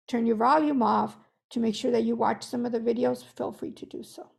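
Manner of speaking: hoarse, fading voice; losing voice. Real, not acted. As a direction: voice giving out, strained. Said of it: "And I'm losing my voice".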